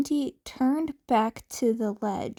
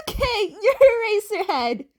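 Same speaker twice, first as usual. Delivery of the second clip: put-on higher, laughing teen voice; half-laughing, higher teen; amused teen; 8 semitones higher, 4 dB louder, faster than usual. Izuku teasing the hero, amused and higher.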